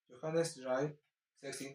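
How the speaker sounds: German "Johannes drei, sechzehn" in a Peruvian Spanish accent. Shown as a demonstration. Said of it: "con acento peruano".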